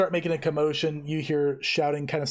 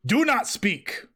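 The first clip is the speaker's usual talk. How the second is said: orc guard command; 7 semitones higher, slower than usual. Acted. Orc guard silences caster.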